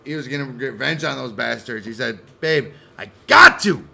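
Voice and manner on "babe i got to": high, loud shouting; mock angry husband. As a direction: rant at the wife.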